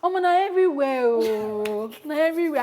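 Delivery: a hint of a friend's Nigerian sing-song. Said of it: "this is O J's voice".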